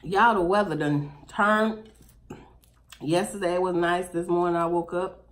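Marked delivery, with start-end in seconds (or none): 0.0-1.9 drawn-out louder call for attention; loud slow call. Real, not acted. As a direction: call out to the room, slowly. Calling out louder again.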